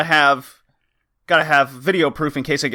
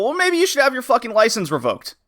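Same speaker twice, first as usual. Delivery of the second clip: higher-pitched, retold angry comeback; triggered retort; 9 semitones higher than usual. Retelling a retort to the careless driver, indignant. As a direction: snap back, re-enacting the outrage. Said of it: "it just immediately triggered something".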